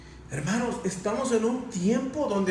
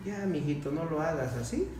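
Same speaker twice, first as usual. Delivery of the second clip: gentle scolding; 3 dB quieter than usual. Retold or imitated. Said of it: "¿cómo le habla?".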